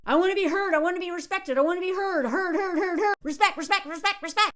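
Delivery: needy chant, heard and respect over and over; mock him chanting his demands; mocking imitation. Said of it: "he's obsessed with being heard".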